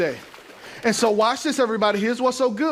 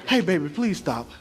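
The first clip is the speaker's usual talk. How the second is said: calm request; 5 semitones lower than usual. Retold or imitated. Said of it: "respond to the calm request".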